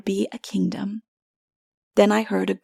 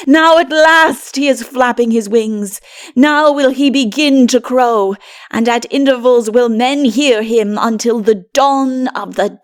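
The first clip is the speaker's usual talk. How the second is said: loud, joyful proclamation, voice raised; ringing, exultant announcement; glad calling out; 2 semitones higher, 7 dB louder than usual. A narrator's reading. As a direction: call it out with a glad smile. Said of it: "called out with a glad smile".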